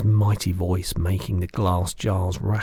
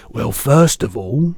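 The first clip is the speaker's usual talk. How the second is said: big, slow, booming giant voice; loud lumbering giant, higher and slow; the giant's voice; 4 semitones higher, 8 dB louder, slower than usual. Acted. Giant correcting the girl, big booming voice.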